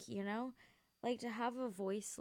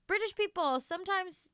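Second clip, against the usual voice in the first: louder, higher word stretched by a yawn; through a yawn; 9 semitones higher, 7 dB louder than usual. Real, not acted. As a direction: say it as a yawn takes over. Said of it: "I keep yawning while saying it".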